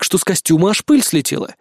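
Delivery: ordinary delivery, nothing marked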